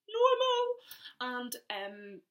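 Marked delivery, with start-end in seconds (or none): 0.1-0.8 higher, louder, slow urgent plea; alarmed. Retold or imitated. To dad in Spain, slow alarmed plea. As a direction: stress the panic. Telling dad she's unwell.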